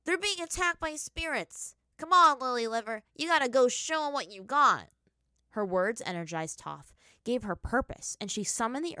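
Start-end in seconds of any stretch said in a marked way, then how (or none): 0.0-4.9 loud, high urgent rallying cry; rally her, loud and urgent; urgent shout. A narrator's reading. Spirit urges Toph to fight.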